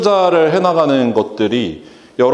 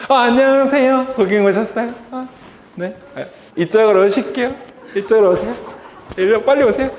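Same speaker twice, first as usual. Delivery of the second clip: high, bubbly host voice with laughter; cheerful staff greeting; 9 semitones higher than usual. Retold or imitated. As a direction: welcome the customer with eager delight. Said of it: "고객님 응대를 이렇게".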